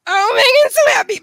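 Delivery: high, loud gush; delighted squeal. Real, not acted. Owner sees dog with new toy, delighted.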